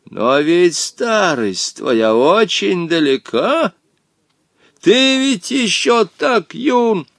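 angry exclamation. A narrator's reading. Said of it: "побагровев от злобы, воскликнул".

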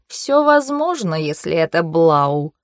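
slow, wheedling flattery; fawning. Acted. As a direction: flatter your master. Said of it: "с угодливыми интонациями".

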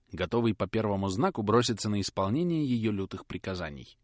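ordinary delivery

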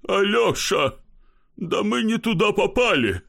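mild mock weeping; tearful voice. Kozyavkin whines to his friend that they broke into the wrong house. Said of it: "плачущим голосом".

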